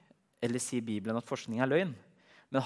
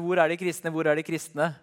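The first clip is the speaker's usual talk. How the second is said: urgent calling; 4 semitones higher, 5 dB louder than usual. Retold or imitated. Farmer runs looking for Christians.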